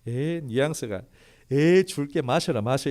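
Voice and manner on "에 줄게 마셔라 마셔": mock-scornful Moses, louder; scornful giving. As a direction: toss it at them like a grudging favour. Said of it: "이러면서 자기가 주는 것처럼".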